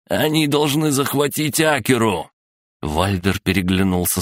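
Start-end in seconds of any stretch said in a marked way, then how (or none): 0.1-2.3 high, pressing outcry; desperate cry. A narrator's reading. Prisoner spills plot to gang bosses, crying out high. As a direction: keep crying out, high and urgent. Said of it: "закричал Людвиг".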